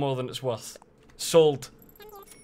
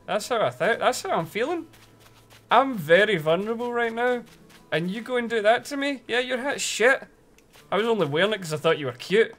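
higher, louder, hammed-up betrayed fury; mock heartbroken rant; 8 semitones higher, 5 dB louder than usual. Streamer ranting at her villager over betrayal, mock hurt. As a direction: tell off the cheating villager.

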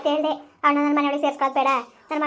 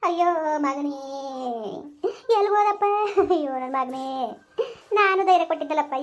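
wailing lament. Acted. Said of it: "ಅಳ್ಬೇಡ ಸುಮ್ಕಿರಮ್ಮ".

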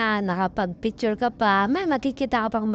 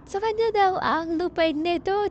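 laughing; 7 semitones higher than usual. Real, not acted. Laughs at friend's claim.

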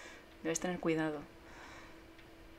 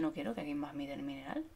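1 secret whisper; 3 semitones lower, 6 dB quieter than usual. Acted. Voicing game NPC secretively.

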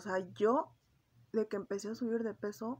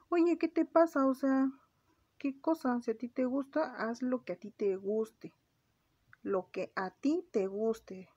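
scolding self-talk; 4 semitones higher, slower than usual. Retold or imitated. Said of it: "Y después dije".

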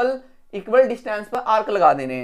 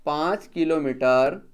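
slow dictation; 3 semitones lower, slower than usual. Shown as a demonstration. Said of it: "इसके ऊपर लिखना है".

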